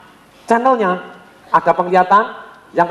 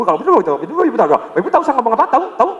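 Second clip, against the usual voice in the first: fast talker demo; 3 semitones higher, much faster than usual. Shown as a demonstration. Trainer demoing a fast visual-type talker, rushed. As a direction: rattle it off fast, words tumbling. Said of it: "ngomongnya sangat cepat".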